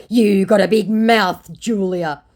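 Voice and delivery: exaggerated quoted put-down; mock scammer insult. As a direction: act out his insult, loud and drawn out.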